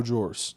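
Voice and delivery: "drawers" with the r pronounced; careful DRAWERS. Real, not acted. Podcaster correcting his Jersey slip, "drawers" with a clear r. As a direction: say "drawers" slowly, sounding the r. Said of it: "I said it right that time".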